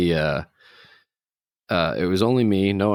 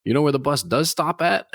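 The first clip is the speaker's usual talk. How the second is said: imitating the stranger; 7 semitones higher than usual. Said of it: "He goes".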